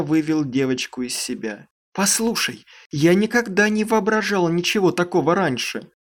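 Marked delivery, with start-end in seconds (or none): 1.9-5.9 indignant, raised exclamation; outraged, higher and louder; indignant exclaim. Acted. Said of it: "возмущённо воскликнула она".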